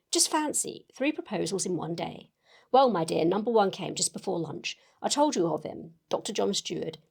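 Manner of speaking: lively reading of a chatty letter; story narration. Acted. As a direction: read it aloud like confiding news to a friend. Reads a novel's letter aloud.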